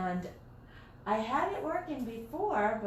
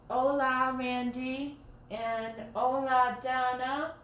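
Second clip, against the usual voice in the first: higher-pitched sing-out hola greeting; playful name greeting; 3 semitones higher, 3 dB louder than usual. Real, not acted. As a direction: call each name out in a high, held tone. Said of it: "I have to say it like that".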